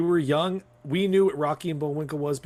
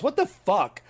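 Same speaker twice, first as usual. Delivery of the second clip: mock outburst, higher pitched; retold yell; 8 semitones higher than usual. Retelling a friend's outburst at a screening, mock yell. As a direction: yell it like someone who can't contain it. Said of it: "she just yells".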